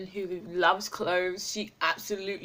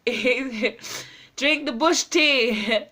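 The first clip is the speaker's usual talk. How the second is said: laughing; 5 semitones higher, 7 dB louder, much slower than usual. Real, not acted. Showing off his morning bush tea.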